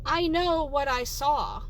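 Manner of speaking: loud, slow, emphatic insistence; insistent. Acted. Customer insists to worker about the mustard, indignant. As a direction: hit each word hard and slow.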